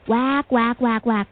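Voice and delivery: croaking crow caws; raspy cawing crow. A narrator's reading. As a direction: imitate crows cawing. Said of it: "bắt chước tiếng quạ kêu".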